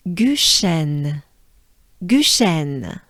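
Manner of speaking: "Guchen" said the French way, gu-shen. Shown as a demonstration. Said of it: "U is part of".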